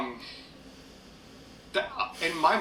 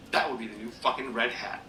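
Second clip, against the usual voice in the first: ordinary talk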